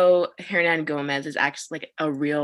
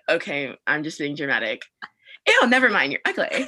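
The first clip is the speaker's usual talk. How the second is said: mock dramatic, laughing; 3 semitones lower than usual. Friend changing her mind about a guy, laughing mock disgust. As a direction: laugh through a playful fake insult. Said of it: "and then come back and be like".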